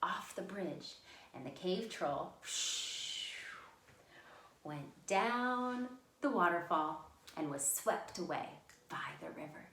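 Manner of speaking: unhurried fairy-tale ending; storytelling for children. A narrator's reading. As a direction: tell it to small children, pausing between phrases. Finishes reading story to children.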